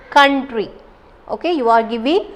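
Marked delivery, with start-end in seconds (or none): 0.1-0.7 "Country" with weight on COUN; first-syllable stress. Shown as a demonstration. Teacher showing stress in the first syllable, emphatic beat. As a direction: press on COUN, lighter "try". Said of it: "stressing in the first syllable".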